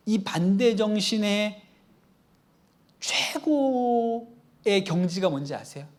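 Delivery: ordinary delivery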